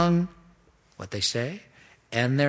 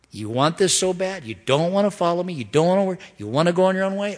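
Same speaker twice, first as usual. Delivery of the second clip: God challenging; 5 semitones higher, faster than usual. Pretend. God confronting his stubborn people, voiced higher. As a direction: press them hard, a frustrated father.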